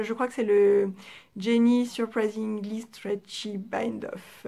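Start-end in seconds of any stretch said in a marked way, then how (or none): 1.4-4.5 English name read slowly with a strong French accent. Real, not acted. Knitter naming an English bind-off, in a strong French accent. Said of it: "mon accent est toujours là".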